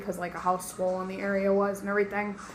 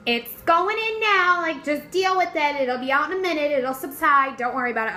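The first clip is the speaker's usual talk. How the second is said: mock the uncaring nurse, pitched way up; imitating a curt nurse who doesn't care; dismissive nurse; 6 semitones higher than usual. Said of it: "And she was like".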